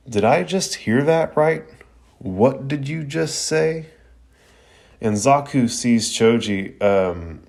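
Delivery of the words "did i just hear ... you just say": menacing disbelief. A narrator's reading. Choji to Zaku after being called fat, menacing and raised. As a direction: let the question quiver with rage. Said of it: "he asks".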